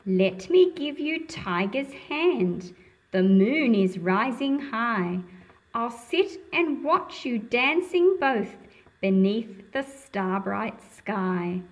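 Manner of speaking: put-on slow, lilting read-aloud to children; reading a poem aloud. A narrator's reading. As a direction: savour the rhyme at each line end. Reads the poem lines aloud.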